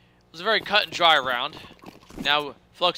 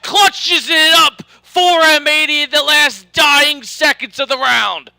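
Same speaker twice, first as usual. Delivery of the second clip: screaming play-by-play, much higher and louder; esports caster shout; 11 semitones higher, 12 dB louder, slower than usual. Real, not acted. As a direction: belt out the clutch call at full volume. Clutch triple kill called out.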